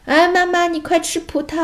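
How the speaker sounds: put-on very high little-girl voice; little sister. Little sister telling Mom to eat grapes, high childlike urging. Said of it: "妹妹就说".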